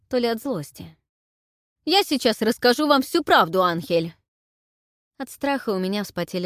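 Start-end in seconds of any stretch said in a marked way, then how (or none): 1.8-4.1 high, loud outraged protest; indignant outburst. A narrator's reading. Gerhard angrily insisting.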